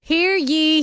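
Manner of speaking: town crier. Acted. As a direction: call it out like a herald. Renaissance fair ad opener.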